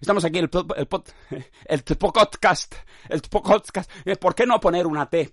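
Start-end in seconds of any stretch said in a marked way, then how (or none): 0.8-3.9 slowed, laughing through tpodcast; amused fumble over tpodcast; laughing stumble. Shown as a demonstration. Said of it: "¿Por qué no anteponer una T a la P de podcast?".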